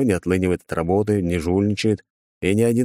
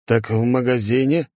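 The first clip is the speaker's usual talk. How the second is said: mildly puzzled, slightly raised pitch; surprised; 4 semitones higher than usual. Acted. Николай answering an odd furniture question, mildly surprised. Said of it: "удивлённо проговорил Николай".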